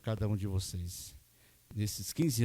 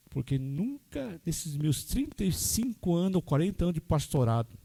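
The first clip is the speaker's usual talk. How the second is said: moved; 5 semitones higher than usual. Real, not acted. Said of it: "até hoje fico emocionado".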